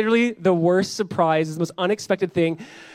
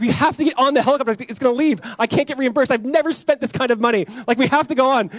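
higher-pitched, insistent quarrel voice; retold heated argument; 5 semitones higher than usual. Couple arguing over boarding the helicopter, retold heated insistence. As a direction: imitate an urgent spousal row. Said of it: "like, she's crying, I'm yelling".

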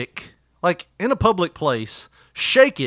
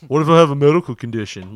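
louder, dopey retort; mock a dimwit's challenge, pushed louder; mocking dickhead voice; 6 dB louder than usual. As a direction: imitate an obnoxious customer talking back. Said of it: "he was doing that shit".

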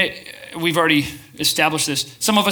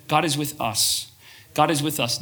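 calm mantra. Shown as a demonstration. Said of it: "just say this to yourself over and over".

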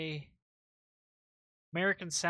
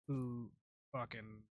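Irish accent; 4 semitones lower, 11 dB quieter, slower than usual. Shown as a demonstration. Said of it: "when I do my Irish accent".

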